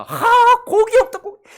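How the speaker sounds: loud, high exasperated wail; hammed-up outburst of griping; mock craving complaint. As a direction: wail like you're sick of the same food. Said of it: "고기가 생각나가지고 하늘 만나를 먹다가".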